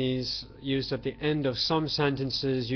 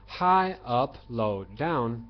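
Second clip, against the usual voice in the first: tone demo; slower than usual. Shown as a demonstration. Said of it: "what we call one, two, three, four".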